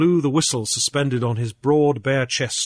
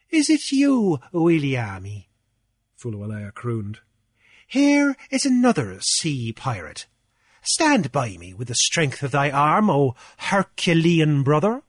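blustering Cornelius. Acted. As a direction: puff up like a petty island official lording it. Cornelius calls on Williami.

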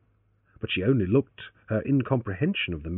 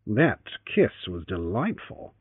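naughty; slower than usual. Acted. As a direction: tease her slowly. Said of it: "he naughtily disclaimed".

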